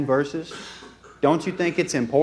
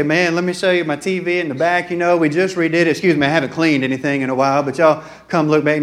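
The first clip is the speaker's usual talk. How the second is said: eager host showing off the house, a bit loud; mock humblebrag, lightly acted; 4 dB louder than usual. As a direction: rattle on proudly to visiting guests. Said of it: "We like to show off our stuff".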